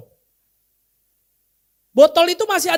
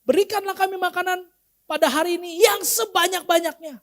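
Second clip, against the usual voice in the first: higher, pleading greedy prayer; mock greedy prayer; 3 semitones higher than usual. Shown as a demonstration. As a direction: ham up a greedy prayer asking for plenty. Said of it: "tapi seringkali kita berdoanya beda". (doa serakah yang dibuat-buat, nada lebih tinggi)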